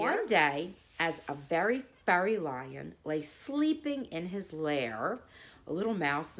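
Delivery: put-on gentle storybook narration for kids; unhurried children's story reading; bedtime story reading. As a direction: read it like a bedtime tale. Reads fable to children.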